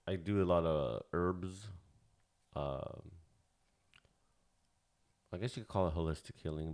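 talking while chewing gum; words around a piece of gum; gum in mouth. Real, not acted. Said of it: "sorry, I got gum in my mouth".

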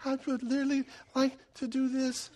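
tiny held-back voice of inner thoughts; calm inner voice. Acted. Husband's inside voice during a heated discussion, soft and restrained. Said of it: "on the inside, I'm just going".

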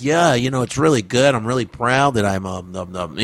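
imitating an articulate ballplayer in an interview; Tony Gwynn. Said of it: "you see how Tony Gwynn was like".

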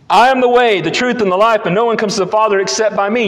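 emphatic proclamation. Acted. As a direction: proclaim it boldly to the congregation. Jesus' words proclaimed in sermon.

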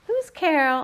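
tinggi dan keras, tersinggung; offended call. A narrator's reading. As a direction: shout it back, offended. Girlfriend offended, calling.

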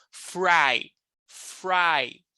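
"Fry" with a curled American R; Americanized "fry". Shown as a demonstration. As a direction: model "Fry" carefully with an untapped R.

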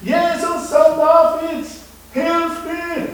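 loud, high cry for help; calling out. Acted. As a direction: call out loudly to be heard. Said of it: "Plötzlich fing er an zu rufen".

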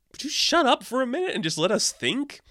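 high, irritated mock outburst; fed up, snapping at the chatterbox; exasperated snap. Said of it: "everyone's just like".

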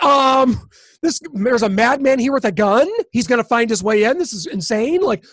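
loud, agitated protest; mock alarm at her calm; retold exasperation. Retold panicked reply to her calm.

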